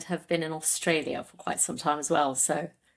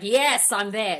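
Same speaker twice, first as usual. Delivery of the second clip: excited yes; 4 semitones higher, 4 dB louder than usual. Retold or imitated. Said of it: "I was like".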